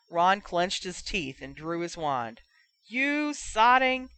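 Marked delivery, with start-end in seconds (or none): 2.9-4.1 angry cut-off curse. Acted. Ron about to curse.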